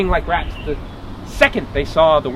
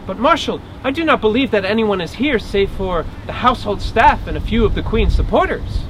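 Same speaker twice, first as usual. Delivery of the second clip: higher-pitched female character voice; polite hostess, protesting; 4 semitones higher than usual. Acted. Woman assures marshal no fugitive is here, politely protesting. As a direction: protest courteously in a raised pitch.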